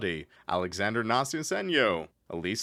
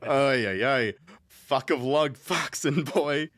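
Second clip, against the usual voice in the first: Joey Wheeler voice; 3 semitones higher, 4 dB louder, slower than usual. Pretend. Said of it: "I need more Joey Wheeler".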